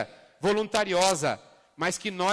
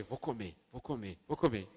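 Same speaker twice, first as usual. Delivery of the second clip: quiet self-promise; 7 semitones lower, 6 dB quieter than usual. Retold or imitated. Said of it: "eu falei".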